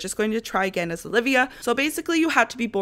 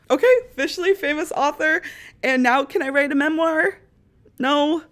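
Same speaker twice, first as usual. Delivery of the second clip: excited; 8 semitones higher, 5 dB louder than usual. Real, not acted. Hitting famous author milestone.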